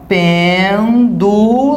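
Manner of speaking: PÊN-du-lo, each syllable stretched, first one longest; stressed syllable drawn out. Shown as a demonstration. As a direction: sound out "pêndulo" very slowly, syllable by syllable. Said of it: "então aqui a gente tem".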